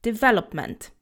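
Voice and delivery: development stressed on VEL, unstressed first syllable. Shown as a demonstration. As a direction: land the beat on VEL in development. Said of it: "the stress is on the we syllable".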